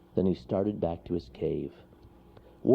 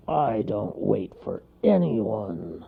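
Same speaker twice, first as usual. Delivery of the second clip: snarling; much slower than usual. Acted. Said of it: "snarled the bear".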